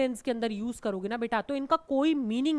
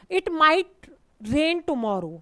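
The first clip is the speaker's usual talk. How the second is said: slow example; 3 semitones higher, 5 dB louder, much slower than usual. Shown as a demonstration. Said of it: "पॉसिबिलिटी जैसे".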